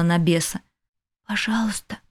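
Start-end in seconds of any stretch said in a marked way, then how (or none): 1.3-2.0 почти беззвучная мольба; проговори одними губами. A narrator's reading. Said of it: "произнесла одними губами". (беззвучно, одними губами)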